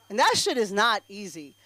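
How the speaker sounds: normal talking voice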